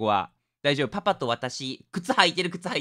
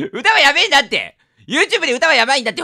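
1 laughing; 7 semitones higher, 9 dB louder than usual. Real, not acted. Laughing panic about song.

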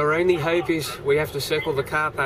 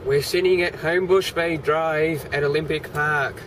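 louder, repeating for a bad line; to someone hard of hearing; 2 semitones higher, 3 dB louder than usual. Real, not acted. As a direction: speak up clearly into the phone. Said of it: "Speak up, I can't hear you".

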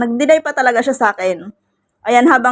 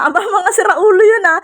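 mock scolding friend; 9 semitones higher than usual. Friend's scolding reply voiced.

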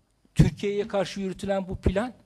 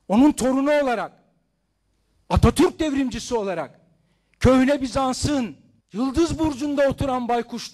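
shouting; 5 semitones higher, 3 dB louder than usual. Real, not acted. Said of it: "bağırıyorum".

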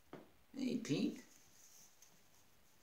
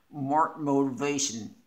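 excited exclamation; 7 dB louder than usual. Real, not acted. Unboxing a gift, loudly excited name callout. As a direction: announce the name, punchy and louder.

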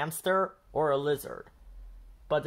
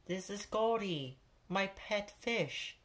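Pete to class; 7 semitones higher, 5 dB quieter than usual. A narrator's reading. Pete showing his pet fish to his class, softly. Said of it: "he tells his class".

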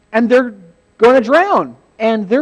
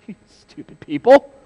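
louder exasperated scolding; acted angry outburst; 3 semitones higher, 7 dB louder than usual. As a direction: berate foolish followers. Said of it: "very angry. He's like".

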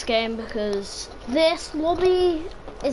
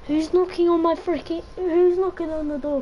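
higher, raised voice at the door; annoyed call; 6 semitones higher than usual. Real, not acted. Gamer calls out at someone knocking on his door.

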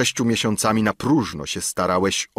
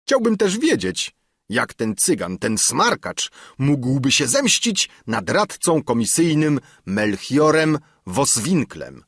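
much higher and louder, fearing ruin; the councillor dreading ruin, much higher and panicky; panicked councillor; 6 semitones higher, 4 dB louder than usual. Acted. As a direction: wail about bankruptcy in rising panic. Councillor scoffs at threat.

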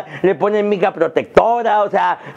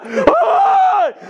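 shrill, very high hammed-up cries of loss; mock anguished wail; 13 semitones higher, much slower than usual. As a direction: wail like the soul left her body, over a phone. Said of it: "se le salió el alma". (lamento exagerado y agudísimo por el teléfono)

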